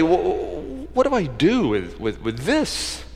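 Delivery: soft, halting mutter to himself; mock mumbling. Preacher imitating himself reading the Bible, mumbling softly. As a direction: stumble over the words as if puzzled. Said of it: "I start mumbling and talk".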